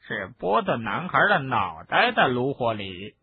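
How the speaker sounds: gleeful little creature voice; sly house-elf talking to himself. Acted. House-elf Kreacher speaks.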